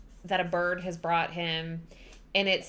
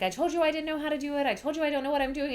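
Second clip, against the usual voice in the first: freaking out; 6 semitones higher, much faster than usual. Retold or imitated. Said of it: "she's freaking out".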